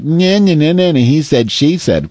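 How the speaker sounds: dismissive playground-style nah-nah taunt; mocking bickering. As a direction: lightly mimic petty back-and-forth arguing. Mimicking petty argument.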